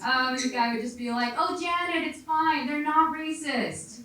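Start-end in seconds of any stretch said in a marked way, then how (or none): 1.4-4.0 higher, drawn-out call to the wife; reassuring husband. Acted. Husband reporting back to Janet, reassuring. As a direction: soothe her from a distance, slowing down.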